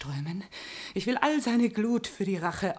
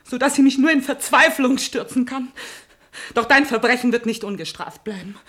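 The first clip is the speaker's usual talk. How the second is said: angry threat; 5 dB louder than usual. Acted. Betrogene Frau droht mit Strafe.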